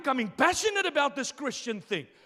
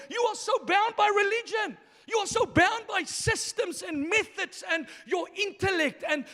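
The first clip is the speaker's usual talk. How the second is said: Jesus shouting down the religious leaders; preached rebuke; 3 semitones higher than usual. Acted.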